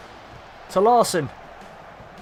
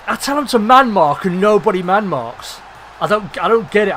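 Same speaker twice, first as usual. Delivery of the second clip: louder, exasperated complaint; frustrated rant; 2 semitones higher, 5 dB louder than usual. Real, not acted. Manager ranting about unmarked players, exasperated. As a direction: vent at the players who ignore orders.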